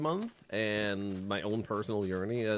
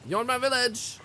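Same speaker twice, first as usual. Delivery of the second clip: excited shout; 13 semitones higher, 5 dB louder than usual. Real, not acted. Shouting at bandit in game.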